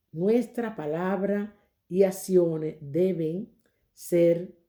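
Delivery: very slow read-aloud with pauses; deliberate lesson reading. Real, not acted. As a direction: spell out the lesson slowly, phrase by phrase. Reads the lesson text aloud. (lectura muy lenta y pausada)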